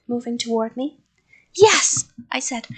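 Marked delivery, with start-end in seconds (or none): 1.5-2.0 high, loud answer; frightened yell. A narrator's reading. Child to the creature, frightened yell. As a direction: blurt it out loudly.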